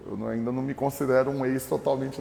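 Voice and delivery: ordinary talk, nothing marked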